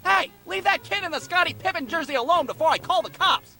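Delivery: mildly indignant man yelling from a car; mock outraged passer-by; imitated scolding adult.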